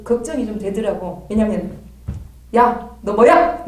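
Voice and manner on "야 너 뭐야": slow, louder challenge to a spirit; stern rebuke. Retold or imitated. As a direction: confront the demon sharply. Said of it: "막 이렇게 하거든요".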